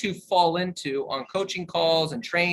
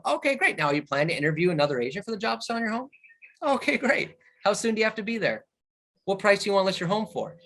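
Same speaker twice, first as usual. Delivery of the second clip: higher, lively, engaged questioning; friendly upbeat tone; 3 semitones higher, faster than usual. Shown as a demonstration. Agent to seller, asking the same questions with an upbeat tone. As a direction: sound genuinely interested in their answers. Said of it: "if I change the tonality".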